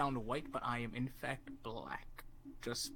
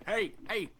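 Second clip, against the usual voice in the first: high, put-on Canadian Mountie; high mock Canadian Mountie shout; 7 semitones higher than usual. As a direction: call out like a Mountie. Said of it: "just going".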